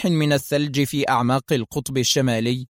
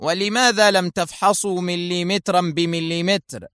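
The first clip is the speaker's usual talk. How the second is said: stern; 5 semitones higher than usual. Acted. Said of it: "قال شيمون في صرامة".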